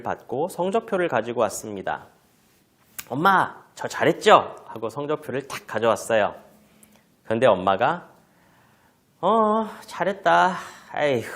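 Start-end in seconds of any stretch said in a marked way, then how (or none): 3.1-4.6 put-on higher, louder child eager for praise; proud child. Child shows mom the report card, proudly. 9.2-11.2 drawn-out praise ending in a sigh. Acted. Mother answers child showing report card, with a disappointed sigh. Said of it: "한숨을 쉬어버린다면".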